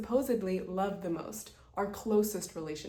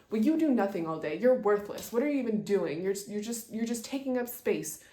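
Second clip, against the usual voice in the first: mock angry put-down. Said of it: "She might start saying".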